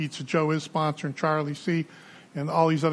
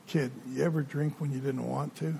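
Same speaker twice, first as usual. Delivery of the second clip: put-on hushed old man; 6 dB quieter than usual. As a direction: lean in and ask it softly, like a secret. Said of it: "so he whispers".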